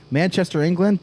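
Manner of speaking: a hint of a British accent slipping in; slipped accent. Reading out a viewer's hometown, slipping into a light British accent. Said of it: "I don't know what the accent was".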